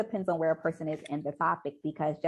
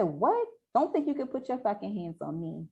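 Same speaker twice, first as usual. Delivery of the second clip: higher-pitched acted indignation; defiant warning; 4 semitones higher than usual. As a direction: warn him off, indignant and pitched up. Acting out her defiant warning.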